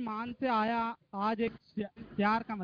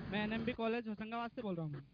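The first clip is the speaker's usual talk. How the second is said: softly spoken self-introduction; too quiet to hear; 7 dB quieter than usual. Real, not acted. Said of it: "आवाज नहीं आ रही है".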